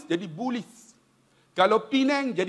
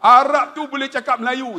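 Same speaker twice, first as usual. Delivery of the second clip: ordinary delivery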